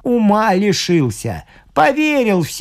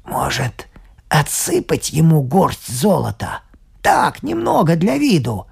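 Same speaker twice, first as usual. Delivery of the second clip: conspiratorial whisper. Acted. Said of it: "наклонился к уху бургомистра".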